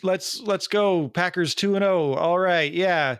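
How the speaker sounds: a yokel Cajun Wisconsinite yelling go Pack go; Cajun Wisconsin accent. Retold or imitated. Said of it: "northern Wisconsin southern thing happening".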